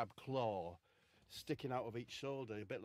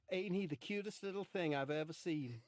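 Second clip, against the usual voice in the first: higher-pitched comic character voice; put-on character voice; 5 semitones higher, 4 dB louder than usual. Comic voices Marcus admiring the robot, put-on high voice. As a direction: pitch it up and coo over something cute. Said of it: "Would he talk like that?".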